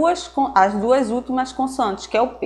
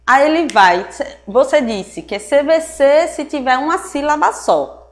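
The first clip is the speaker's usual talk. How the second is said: imitating a puzzled student, higher; mock student question; 4 semitones higher than usual. Teacher voicing a student's doubt to the class, puzzled. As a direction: play the student asking the teacher. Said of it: "você vai me perguntar".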